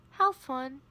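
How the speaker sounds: flat robot-like voice; deadpan like a robot. Real, not acted. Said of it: "Why do I sound like a robot?".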